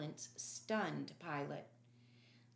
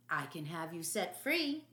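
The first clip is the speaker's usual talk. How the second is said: slurred. Acted. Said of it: "slurred Herod".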